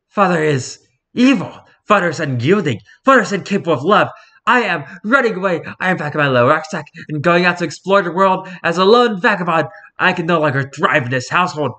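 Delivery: high, grandly tragic cat lament; melodramatic Victorian child. Acted. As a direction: wail it like a wronged orphan. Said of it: "cats talk like this disparage of Victorian children".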